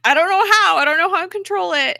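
high, loud, frantic retelling; mock panicked yell. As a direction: imitate someone helplessly losing control. Flint panicking when ordered to stop.

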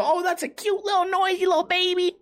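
very high pet-cooing voice; gushing baby talk. Retold or imitated. Owner to his yawning dog, high baby talk. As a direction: squeal it sweetly, as to a baby. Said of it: "And I go".

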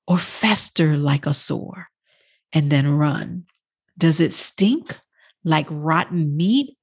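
measured, reflective poetry reading; poem recitation. Acted. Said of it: "I want to recite this poem".

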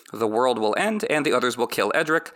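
normal talking voice

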